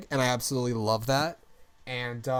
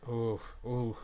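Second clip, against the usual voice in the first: JonTron swoon; 6 semitones higher, 4 dB louder than usual. Pretend. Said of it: "Okay, JonTron".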